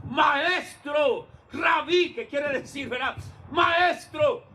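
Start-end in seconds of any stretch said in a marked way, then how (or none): 0.1-2.1 shouting to the teacher. Retold or imitated. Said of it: "ellos gritaron". 3.5-4.4 shouting to the teacher. Retold or imitated. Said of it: "ellos gritaron".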